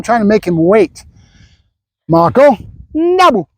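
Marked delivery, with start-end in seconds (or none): 2.1-3.5 high, slow, stretched call; dog command. Real, not acted. Trainer cueing waiting dog, high slow command. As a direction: call the name, then draw out the cue.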